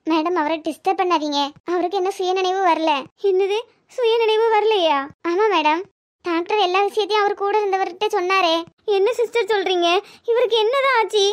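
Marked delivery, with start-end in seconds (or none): 3.3-5.0 shocked, drawn-out question; tense disbelief. Acted. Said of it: "madam, tension ஆகாதீங்க". 9.0-11.2 mildly panicked wife questioning; tense. Acted. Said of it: "madam, tension ஆகாதீங்க".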